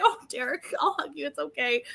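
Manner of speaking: soft, reassuring like a mom; tender comforting. Retold or imitated. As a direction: gently soothe a sad friend. Mom comforting Derek in thought.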